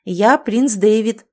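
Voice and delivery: slow, loud, proud announcement; proud declaration. Acted. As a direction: declare your title firmly. Prince declares himself to ghost.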